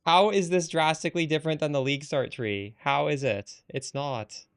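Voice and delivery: loud, incredulous challenge; exasperated. Real, not acted. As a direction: push back hard, exasperated. Exasperated streamer challenging chat.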